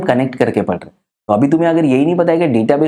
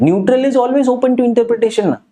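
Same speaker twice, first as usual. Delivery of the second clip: slow dictation; 8 semitones higher, much slower than usual. Shown as a demonstration. Teacher dictating a key definition.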